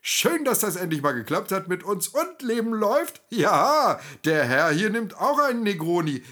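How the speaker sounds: loud, high, backslapping buddy voice with laughs; Brockmüller greets Willi and orders Negronis, booming and jovial. A narrator's reading. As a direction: play the overbearing old friend, ordering drinks.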